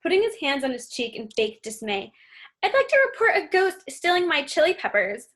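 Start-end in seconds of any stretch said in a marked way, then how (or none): 2.6-5.3 high, mocking put-on Mexican accent; sneering Mexican accent parody, played up; exaggerated Mexican accent. Officer mocking the kids in a fake Mexican accent. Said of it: "an exaggerated Mexican accent".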